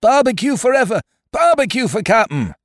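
high, excited pirate chant; rousing acclamation from a mutinous crew; crew's cheer. A narrator's reading. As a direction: cheer the new captain loudly. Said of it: "they cried".

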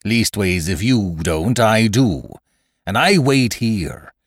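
firm pirate captain holding his ground; Silver. Acted. Captain demanding the crew's grievances first, firm authority. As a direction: assert command with measured scorn.

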